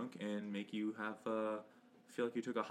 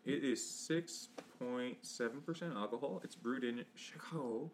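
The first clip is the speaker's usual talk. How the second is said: slow, lightly voiced goofy demon; hint of a dopey cartoon voice; Little Nicky voice; 2 semitones higher, slower than usual. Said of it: "It's my little Nicky voice".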